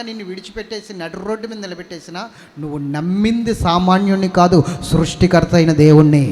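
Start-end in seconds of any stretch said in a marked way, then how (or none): 2.6-6.2 loud declaration; preaching proclamation. Real, not acted. Preacher tells congregation whom they trust, loud. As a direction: proclaim it with full force.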